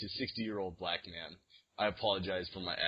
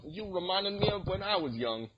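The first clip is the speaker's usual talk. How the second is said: put-on much higher, nostalgic old guy voice; lightly hammed old man at the gym, wistful; mock old dude; 10 semitones higher than usual. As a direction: reminisce like an old gym regular. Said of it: "old dudes who are like".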